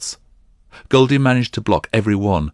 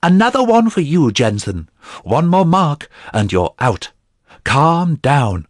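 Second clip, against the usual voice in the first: loud, high warning shout; stern yelled rebuke to the fighter; priest yelling; 7 semitones higher, 4 dB louder than usual. A narrator's reading. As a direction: bark the penalty across the ring. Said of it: "The priest yelled again".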